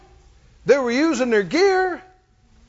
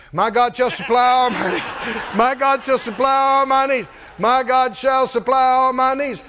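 mock shouted confession. Preacher mocking couch confessions, shouted. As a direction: hammer the verse like a lazy believer.

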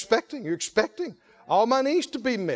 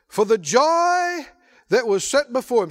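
proclaimed; 3 semitones higher, 4 dB louder than usual. Shown as a demonstration. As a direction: declare it to the whole church. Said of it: "Somebody say".

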